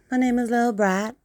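high Scouse accent; Liverpool accent. Shown as a demonstration. Showing off accents when bored, in Scouse.

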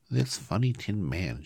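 small royal creature voice; mouse queen. A narrator's reading. Mouse queen answers her subjects.

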